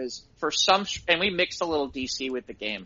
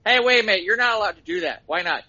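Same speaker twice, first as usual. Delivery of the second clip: mock indignant objection; 3 semitones higher, 3 dB louder, faster than usual. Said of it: "this is something Lou would say".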